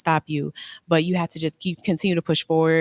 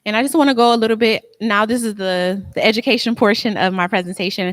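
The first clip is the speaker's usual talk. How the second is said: energized presenter; 4 semitones higher, 3 dB louder than usual. Real, not acted. Launching education part of presentation.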